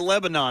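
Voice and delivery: Lebanon said in full like the country; imitated pronunciation. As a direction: Lebanon ending in a clear "non". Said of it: "Cheyenne still says Lebanon".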